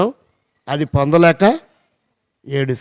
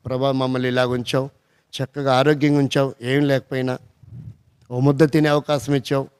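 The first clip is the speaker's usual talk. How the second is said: prayer of thanks; 4 semitones lower than usual. Acted. Voices a thankful prayer to God.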